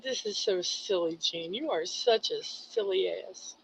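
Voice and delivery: self-scolding. Retold or imitated. Scolding himself while crying.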